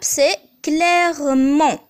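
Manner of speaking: clairement drawn out slowly; slow demo. Shown as a demonstration. Teacher to students, slow model word.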